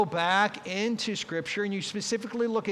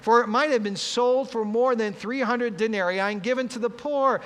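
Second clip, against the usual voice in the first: louder, higher indignant rebuke; sharp criticism; 6 semitones higher, 5 dB louder than usual. Acted. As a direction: scold like an angry disciple. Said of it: "they criticized her sharply".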